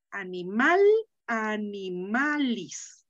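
"animal" stressed on the final "mal", "animalis" drawn out on "ma"; aguda stress. Shown as a demonstration. Teacher giving her Latin class the dictionary entry, slow and stressed on "ma". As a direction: say "animal, animalis" slowly, leaning on "ma". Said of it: "fíjense cómo lo pronuncié".

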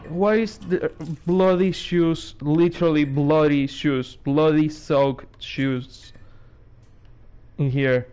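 slow, dragged-out sarcastic remark. Real, not acted. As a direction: stretch it out dripping with sarcasm. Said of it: "super sarcastic".

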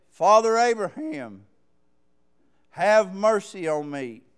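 loud, pleading cry to Father Abraham; crying out for mercy. Acted. Rich man in torment crying out loud for mercy. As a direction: call out from the flames, begging.

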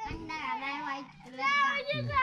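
crying. Real, not acted. Child begs uncle for a white egg, crying. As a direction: plead through tears. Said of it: "क्यों रो रही है बाबू".

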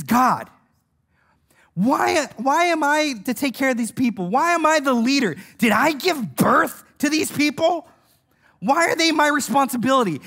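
acted pleading protest to God; driven to exasperation. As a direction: imitate an overwhelmed leader demanding answers. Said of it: "he was driven mad to that point".

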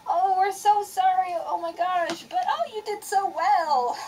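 high, slow, gushing parent voice, lightly done; parents consoling. Retold or imitated. Parents consoling their shaken daughter after the run, high gushing coo. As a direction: coo like sorry, proud parents. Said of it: "my parents were like".

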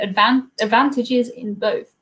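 advantages with a short American 'a'; North American accent. Real, not acted. Streamer reading a viewer's comment aloud, North American accent. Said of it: "saying that not in my own accent".

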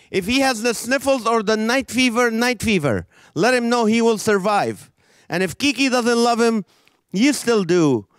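praying pastor. Retold or imitated. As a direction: ham up a pastor's fervent prayer. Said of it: "He was like".

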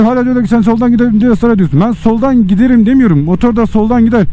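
ordinary talk, nothing marked

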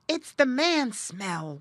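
slow hushed fearful muskrat; whispered. A narrator's reading. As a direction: breathe it out scared and slow. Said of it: "whispered Jerry".

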